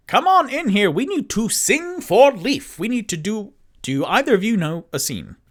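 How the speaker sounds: high, loud, excited call to come in and sing; eager bard call. Acted. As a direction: throw the invitation out big and high, eager for a song. Toot Toot calls the bards in.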